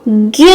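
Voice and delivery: ज्ञ with the vowel hummed through the nose; nasalized vowel. Shown as a demonstration. Teacher showing children chandrabindu, nasalized ज्ञ. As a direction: draw out ज्ञ as a nasal ज्ञँ. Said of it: "ज्ञ पर लगाएंगे तो".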